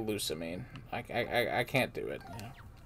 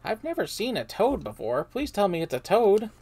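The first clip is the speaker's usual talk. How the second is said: character voice; 4 semitones higher, 4 dB louder than usual. Acted.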